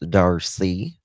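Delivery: name drawled in a Southern accent. Real, not acted. Streamer showing a viewer how they say Darcy, Southern accent. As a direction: say DARCY with a Southern lilt, rising at the end. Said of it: "that's my southern accent".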